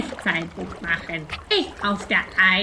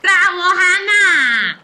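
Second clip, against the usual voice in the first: loud, high bravo; cheering shout; 9 semitones higher, 6 dB louder than usual. Acted. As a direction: cheer her on loudly. Praising child after boarding canoe. (lauter Jubelruf)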